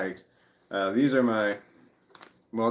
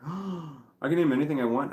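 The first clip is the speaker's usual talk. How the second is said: excited daughter; 5 semitones higher than usual. Retold or imitated.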